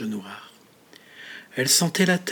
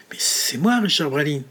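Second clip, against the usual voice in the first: shocked protest; 2 semitones higher, 5 dB louder than usual. Acted. Richard hears his own eulogy and protests in shock. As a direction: insist on who you are, stunned.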